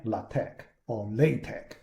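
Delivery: "LaTeX or LaTeX" as lah-TEK, then LAY-tek; both pronunciations. Shown as a demonstration. Teacher applies the rule to the full name, "LaTeX" as lah-tek or lay-tek. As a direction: say "LaTeX" first with a short A, then with a long one. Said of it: "Two different ways to pronounce it".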